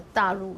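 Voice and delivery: 大陆 with the initial sound altered, not standard; non-standard 大陆. Shown as a demonstration. Teacher showing a non-standard 大陆. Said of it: "not very standard".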